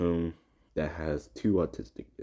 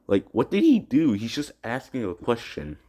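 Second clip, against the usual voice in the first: indignant outburst; 3 semitones higher than usual. Real, not acted. Outraged at bullies' abuse.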